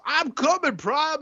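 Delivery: high, eager robot reply; heroic robot voice. Retold or imitated.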